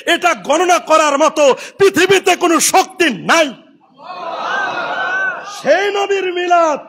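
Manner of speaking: ringing sermon delivery; impassioned preaching. Acted. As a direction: preach it out to the crowd. Preaches at full force.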